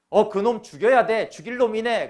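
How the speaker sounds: loud, high outraged shout; David's outrage. Acted. King David furious at the rich man in the parable, shouting. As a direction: bellow for the man's death. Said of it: "다윗이".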